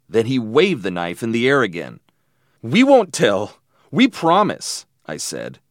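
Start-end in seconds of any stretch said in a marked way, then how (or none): 2.6-4.9 high, loud, urgent promise; frightened pleading. A narrator's reading. Boy swearing silence to knifeman, frightened pleading. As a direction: pitch it up, anxious to convince.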